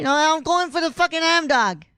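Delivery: botched Aussie sliding into New York; New York-like accent. Acted. Host's Australian impression slips, coming out as a New York accent. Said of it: "that's more New York".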